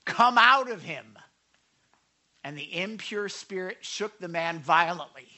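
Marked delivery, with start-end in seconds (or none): 0.1-1.2 loud, slow, high-pitched order; forceful, drawn-out rebuke; stern command. A narrator's reading. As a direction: cast it out with authority. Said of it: "said Jesus sternly".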